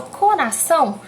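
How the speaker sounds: "coração" with a stronger final "ção"; stress on final syllable. Shown as a demonstration. Teacher showing the stressed syllable, "coração" stressed on "ção". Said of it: "o são é mais forte".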